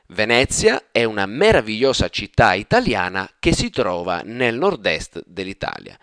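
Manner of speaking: fast, flowing natural Italian. Shown as a demonstration. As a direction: run the sentence together smoothly. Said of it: "quicker, and more fluid intonation".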